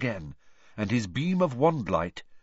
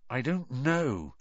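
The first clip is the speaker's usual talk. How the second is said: slowly; 4 dB quieter, slower than usual. Acted. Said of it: "said Harry, slowly".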